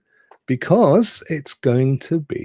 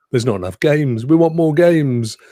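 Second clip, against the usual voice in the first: louder, higher collective complaint; mock clamouring; 5 semitones higher, 4 dB louder than usual. Gamer voicing everyone's old demand, mock clamouring. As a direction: demand it like an impatient crowd. Retells what players all demanded.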